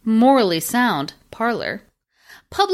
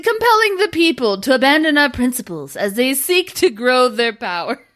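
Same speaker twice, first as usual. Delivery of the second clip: barely straight face; holding back laughter; stifled laughter. Real, not acted. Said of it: "say this with a straight face".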